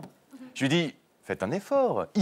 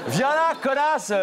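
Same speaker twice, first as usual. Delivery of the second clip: mock tender murmur; 8 semitones higher than usual. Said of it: "lui ai-je murmuré tendrement".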